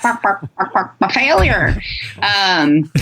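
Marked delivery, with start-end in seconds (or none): 0.0-1.8 imitation chicken squawks turning into words; comic hen impression; taunting chickens. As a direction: cluck it out like a mocking hen. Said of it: "they would be like".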